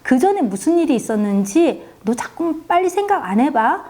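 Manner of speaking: put-on a mother nagging her child for an explanation; pressing interrogation. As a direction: press the child hard for answers. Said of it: "아이를 막 닥달복달을 했습니다".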